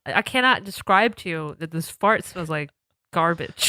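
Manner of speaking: pinched nose voice; holding nose. Real, not acted. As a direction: talk while pinching nose. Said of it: "'cause I'm holding my nose".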